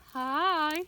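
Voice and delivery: put-on loud, excited children's-show hello; big, booming happy welcome; delighted greeting. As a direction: greet everyone with gleeful gusto. Greeting the found snail toy.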